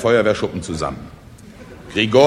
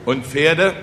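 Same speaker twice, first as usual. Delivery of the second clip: slightly anxious, raised question; 5 semitones higher than usual. Acted. Peasants ask about their horses, anxious. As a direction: ask with rising worry. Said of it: "fragten ängstlich die Bauern".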